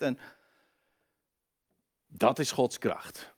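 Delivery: ordinary talk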